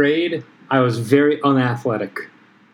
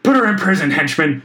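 commanding villain; 4 semitones higher than usual. Acted. Villain giving orders in acted scene.

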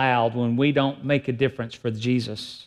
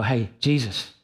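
half-hearted call; 5 semitones lower than usual. Retold or imitated. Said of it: "And so we go".

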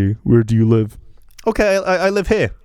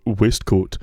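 imitating the buyer; 2 semitones lower, much slower than usual. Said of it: "some guy was like".

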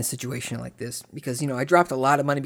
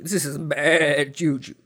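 ominous warning; slower than usual. Retold or imitated.

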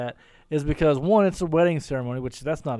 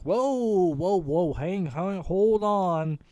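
shocked. Retold or imitated. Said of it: "we'd be like".

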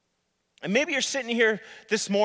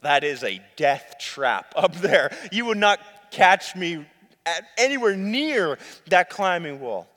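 acted private dread; 2 semitones lower than usual. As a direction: play up a secret horrified thought. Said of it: "Meanwhile, I'm thinking to myself".

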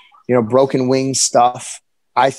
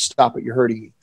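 ordinary delivery

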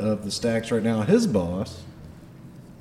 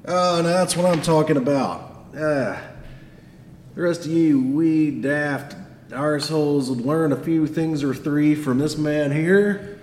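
Scottish dwarf boss giving orders; halting, emphatic briefing in a Scottish accent; Garm; 4 semitones higher than usual. Acted. Dwarf boss briefing his crew over breakfast, Scottish accent. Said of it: "has a Scottish accent".

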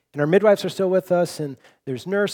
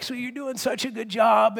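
softer, higher encouraging voice; gentle encouragement; 4 semitones higher, 5 dB quieter than usual. Retold or imitated. Husband softly encouraging his wife in labour, gentle. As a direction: soothe her through it.

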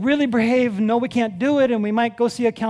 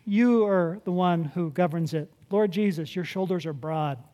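sample prayer; 4 semitones lower, 4 dB quieter than usual. Pretend. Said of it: "take my little kingdom and say".

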